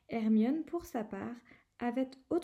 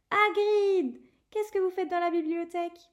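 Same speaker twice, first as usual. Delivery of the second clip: Hagrid shouted high and loud, surprised; surprised exclamation; 7 semitones higher, 7 dB louder than usual. Acted. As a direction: call out in surprise at seeing him. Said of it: "Ron s'écrier". (Ron s'écrie, surpris de voir Hagrid à la bibliothèque)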